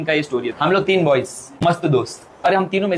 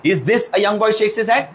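put-on bossy old lady; 4 semitones higher, much slower than usual. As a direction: tease him slowly, then order it. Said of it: "क्या बोलती है". (बुज़ुर्ग madam की धीमी, चिढ़ाती आवाज़)

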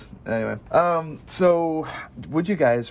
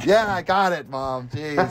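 exasperated sibling; 2 semitones higher, slower than usual. Acted. Sibling answering Mom's nagging about Jesus, exasperated. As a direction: put on a fed-up kid brushing Mom off.

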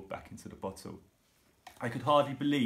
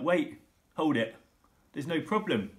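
cried out; 5 semitones higher, 4 dB louder than usual. A narrator's reading. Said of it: "Then I cried out".

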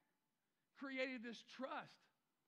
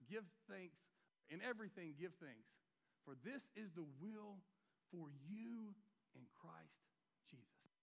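fading scripture; 5 semitones lower, 6 dB quieter than usual. Acted. Quoting Thessalonians, fading out.

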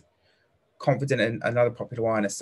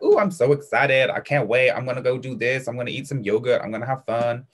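bubbly, eager, a bit louder at the start; excited; 3 dB louder than usual. Shown as a demonstration. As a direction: act like a kid who can't wait. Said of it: "excitable is like".

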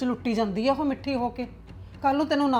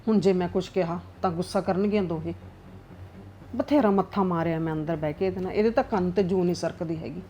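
grumbling aside to herself; 4 semitones lower than usual. Acted. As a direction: sulk and plot under her breath. Mother-in-law grumbles alone, scheming. (ਨੂੰਹਾਂ ਬਾਰੇ ਇਕੱਲੀ ਬੁੜਬੁੜਾਉਂਦੀ ਸੱਸ, ਨੀਵੀਂ ਸੜੀ ਹੋਈ ਅਵਾਜ਼)

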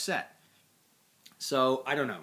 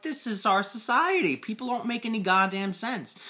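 ranting; 8 semitones higher than usual. Retold or imitated. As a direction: vent it hard. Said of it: "I'm like".

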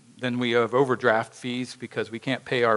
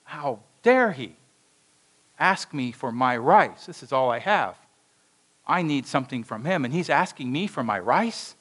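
indignant inner thought. Acted. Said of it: "he's processing this and thought".

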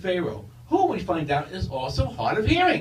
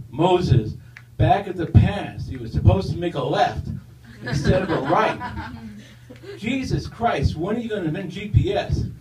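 booming voice; 4 dB louder than usual. Acted. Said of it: "a voice says".

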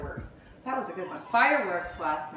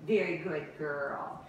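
slow calm praise; 4 semitones lower, much slower than usual. Real, not acted. Praising puppy calmly.

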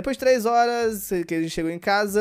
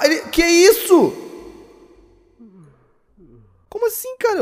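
much higher, loud disbelief; real astonishment; 11 semitones higher, 8 dB louder than usual. Real, not acted. Gamer startled by a creature, high loud disbelief. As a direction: gasp it out in disbelief. Monster appears in game.

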